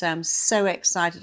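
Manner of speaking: upbeat excitement before a speaking gig; excited self-talk. Shown as a demonstration. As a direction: turn the fear into excitement. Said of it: "Instead of saying".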